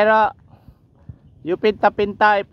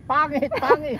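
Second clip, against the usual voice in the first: imitating an echo; 8 semitones higher than usual. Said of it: "Sabi nung echo niya".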